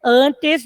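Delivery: "antes" em duas sílabas separadas, "an-tes"; separação silábica. Shown as a demonstration. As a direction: diga "antes" escandido, com o "te" bem pronunciado. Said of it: "duas sílabas". ("antes" sílaba por sílaba, como professora)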